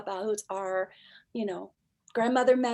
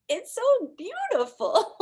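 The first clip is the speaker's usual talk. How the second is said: much higher, laughing as she says it; real laughter breaking into the words; joyful laugh; 11 semitones higher, 4 dB louder than usual. Real, not acted. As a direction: giggle the words out with delight. Laughs with joy about her work.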